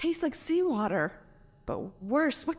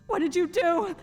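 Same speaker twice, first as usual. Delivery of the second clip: panicked questions; 6 semitones higher than usual. Acted. Waking to a changed body.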